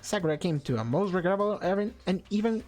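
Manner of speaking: put-on high, sly British-accented bear mascot; mock British villain bear, gleeful; British Monokuma. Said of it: "You make Monokuma sound British".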